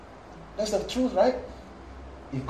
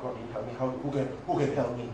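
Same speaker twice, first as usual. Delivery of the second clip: cynical believer; 4 semitones lower, 5 dB quieter than usual. Acted. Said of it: "That's not faith".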